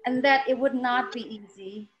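measured poetry reading with long pauses between phrases; unhurried spoken-word recital of a personal poem. Acted. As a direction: recite it line by line, letting each phrase settle. Reads her poem aloud over music.

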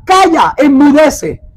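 rebuking command. Retold or imitated. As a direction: command the storm to be still. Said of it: "reprendió al viento y dijo al mar".

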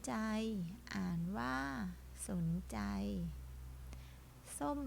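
slow, drawn-out word-by-word reading; reading drill. Shown as a demonstration. Teacher leading children in reading practice, slow and deliberate. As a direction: model each word slowly, holding the final syllable.

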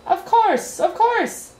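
high, loud, emphatic reassurance; dismissive. A narrator's reading. King answering Milo's protest at dinner, dismissively. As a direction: brush the objection aside.

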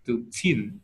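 "chin" as the stressed final syllable; stress on final -TEEN. Shown as a demonstration. Teacher explaining teen numbers, stressed ending on "chin". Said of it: "mình sẽ nhấn trọng âm bằng từ".

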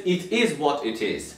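slow "It is what it is" in a Turkish accent; Turkish-accented English. Shown as a demonstration. Turk owning his non-native English, Turkish-accented English. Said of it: "biz buna ne diyeceğiz?".

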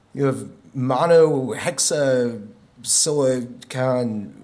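monohexasilicon sounded out very slowly, syllable by syllable; halting pronunciation. Shown as a demonstration. Reading a chemical name to the audience, slow and halting. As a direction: drag out monohexasilicon as you stumble through it. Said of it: "the pronunciation is gonna be absolutely terrible".

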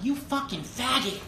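high-pitched mimicked angry insult; mock-furious and high; retold anger. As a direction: imitate someone fuming, without shouting. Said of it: "He was so mad".

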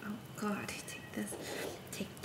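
soft unvoiced whisper. Real, not acted. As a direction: whisper it under your breath. Hands over chicken, hushed.

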